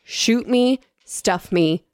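understated horrified quote, sinking step by step; mock-mortified, phrase by phrase, trailing down; retold horror. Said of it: "is horrified, and says".

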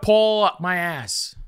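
very slow, each word drawn out; slow deliberate. Shown as a demonstration. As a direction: spell it out slowly. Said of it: "No, pull, pull".

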